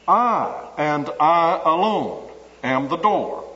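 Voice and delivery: "I, and I alone" slowed, with weight on each "I"; stress on I alone. Shown as a demonstration. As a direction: dwell on "I alone". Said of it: "emphasis upon that personal pronoun".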